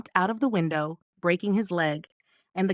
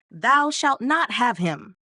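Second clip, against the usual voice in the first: the gruff warning once more, drawn out; gruff cry; 3 semitones higher, slower than usual. Acted. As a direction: call it again slowly, gruff and stern. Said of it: "cried out in a very gruff voice".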